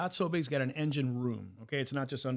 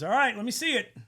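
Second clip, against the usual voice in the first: put-on hillbilly accent; 9 semitones higher, 5 dB louder than usual. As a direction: play an old mechanic with a hillbilly accent. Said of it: "have a hillbilly accent".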